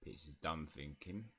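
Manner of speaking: low, soft, slow house elf; hushed, deliberate creature voice; Pitts. Acted. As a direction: announce it slowly in a low elf voice. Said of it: "elf voice".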